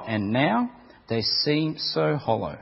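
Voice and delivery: intense, building story read, cries in the dark; dramatic story reading. A narrator's reading. Preacher reading a hell story to the congregation, dramatic. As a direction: read it like a horror tale of the damned.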